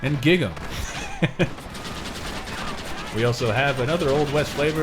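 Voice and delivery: hollering like a frontier huckster; Old West salesman. Pretend.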